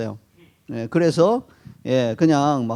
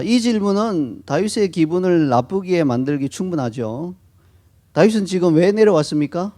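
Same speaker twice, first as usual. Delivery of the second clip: normal talking voice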